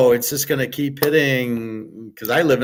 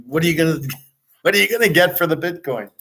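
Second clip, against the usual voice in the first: laughing, higher-pitched question; real amusement; 5 semitones higher, much faster than usual. Real, not acted. Amused by his own bank bit, laughing as he asks. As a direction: ask it while cracking up. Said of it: "This is getting funnier and funnier".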